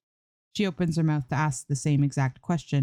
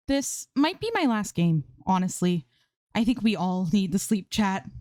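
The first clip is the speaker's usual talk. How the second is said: sleepy streamer voice; 5 semitones higher than usual. Acted. Sleepy streamer signing off to chat.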